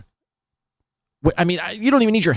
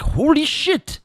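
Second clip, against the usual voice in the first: higher mock gasp of awe; mocking holy shit; 10 semitones higher, slower than usual. Host mocking the steak story, mock awe. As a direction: parrot her awe, a step higher. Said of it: "I was like".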